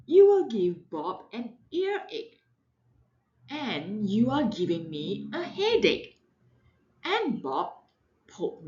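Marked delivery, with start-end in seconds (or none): 0.1-6.2 a touch of a scolding mother, louder; exasperated mom. Acted. Mother scolding her loud daughter, mildly exasperated. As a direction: scold like a worn-out parent. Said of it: "Mommy said".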